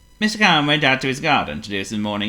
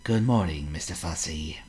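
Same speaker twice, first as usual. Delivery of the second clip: calm greeting; 5 semitones lower, 6 dB quieter than usual. Acted. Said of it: "said Mister Calm calmly".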